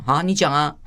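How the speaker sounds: mock impatient reply; imitated grudging consent. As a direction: act out a spouse testily yielding the floor. Husband's reply acted out.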